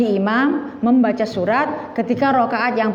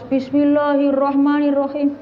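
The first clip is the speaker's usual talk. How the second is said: mock imam reciting aloud, pitched up; loud recitation; 4 semitones higher than usual. New graduate leading afternoon prayer recites out loud by mistake, raised-voice recitation. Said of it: "Suaranya kelas".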